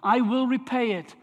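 measured reading aloud, phrase by phrase; scripture reading. Acted. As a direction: read the epistle out to a congregation, each phrase set apart. Reads the letter aloud to congregation.

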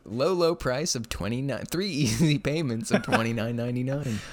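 hammed-up TV salesman pitch; infomercial. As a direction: sell it like a late-night ad. Parodying an ad.

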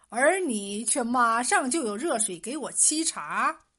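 word by word, deliberate and pointed; staccato. Acted. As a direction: spell it out one word at a time, pressing the accusation. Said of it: "一字一顿地说".

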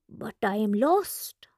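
slow hushed confidence; slow leaning-in whisper. Acted. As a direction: lean in and whisper it. Shopkeeper leans in confiding.

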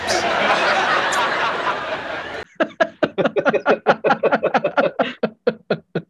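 long, loud high-pitched laughing fit; laughter. Real, not acted. Host cracking up after a played sitcom clip, hearty laughter. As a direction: burst out laughing and keep it going.

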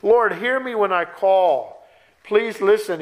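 slow, earnest appeal to be heard; imitated prayerful pleading. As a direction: voice the psalmist's plea, drawing it out. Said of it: "Lord, he's pleading".

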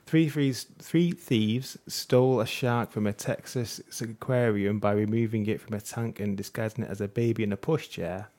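reading the news story excitedly; eager, animated news reading. Real, not acted. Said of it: "you're using an excited voice there".

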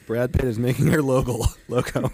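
laughing. Real, not acted. Laughing at the idea.

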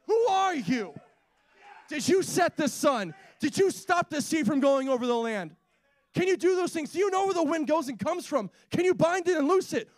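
high, insistent preaching challenge; God challenging Job. Retold or imitated. God questioning Job about creation, high-pitched forceful challenge. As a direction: thunder out rhetorical questions, pitch climbing. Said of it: "What did God say to Job?".

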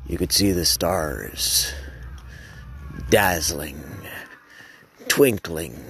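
low, unhurried stargazing reverie; dreamy narration. Acted. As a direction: let the thoughts drift, pausing between phrases.

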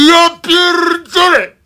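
high, drawn-out cry of disbelief; amazed exclamation. Real, not acted. Host shocked by the priest's quote, high disbelieving cry. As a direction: squeal in sheer disbelief. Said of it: "On to naprawdę mówi".

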